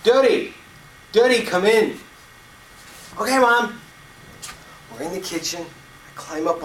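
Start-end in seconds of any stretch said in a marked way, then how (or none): 0.0-2.0 loud, high call from the back door; mother calling her son inside, yelling; mom yelling. Retold or imitated. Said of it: "My mom yells". 3.2-3.8 put-on high, bright-eyed child's "okay"; six-year-old boy answering his mother, high and eager; little boy voice.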